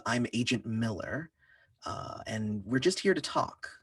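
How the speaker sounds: softly spoken, mild official calm; calm agent. Acted. Agent at the door here to talk, calm. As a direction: say it calmly, like a mission of peace. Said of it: "she's saying it really calmly".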